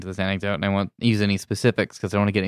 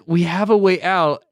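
high, louder mock pleading voice; mocking kids who beg for rescue; whiny pleading kids; 8 semitones higher, 5 dB louder than usual. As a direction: play the desperate trapped kids.

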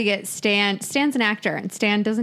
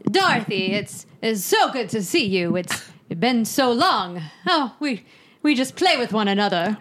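theater Southern. Retold or imitated. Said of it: "you called it theater Southern".

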